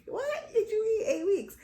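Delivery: loud, high shout of disbelief; high, incredulous outburst; retold shock. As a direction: shout it, completely thrown. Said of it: "I just was shocked".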